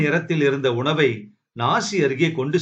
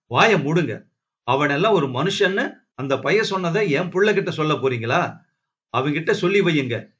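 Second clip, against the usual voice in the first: mildly heated scolding; indignant warning, only moderately raised; angry outburst; 3 semitones higher, faster than usual. Acted. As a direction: tell him off with restrained anger. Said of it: "கோபப்படாத அண்ணா".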